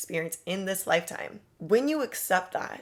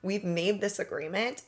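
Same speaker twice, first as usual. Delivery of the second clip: pushy nag; 2 semitones higher, 4 dB louder than usual. Retold or imitated. Someone on her case about the money, mock annoyed. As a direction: play an impatient creditor chasing the deal. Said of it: "on my ass like".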